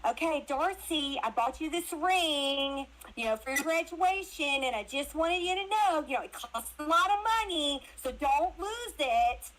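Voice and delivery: lightly voiced mom, dragging out the warning; imitating mom. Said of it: "but it's like".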